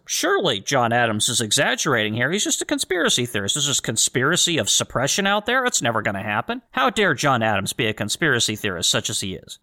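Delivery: mock outrage at a "conspiracy theorist"; dripping with sarcasm, pretending to scoff; sarcastic. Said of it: "I say sarcastically".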